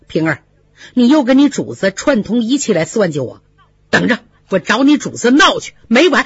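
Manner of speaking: mild angry rebuke to a friend; mildly angry. Acted. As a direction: tell her off, offended. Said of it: "生气地说，".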